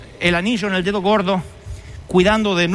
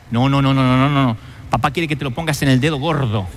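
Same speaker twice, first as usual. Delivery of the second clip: put-on bossy older brother; 7 semitones lower than usual. Older brother scolding prodigal.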